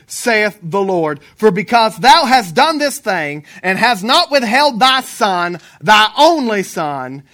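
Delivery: emphatic, declamatory Bible reading; scripture reading. Real, not acted. Preacher reading Genesis to the congregation, emphatic scripture reading. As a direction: proclaim the verse with weighty pauses.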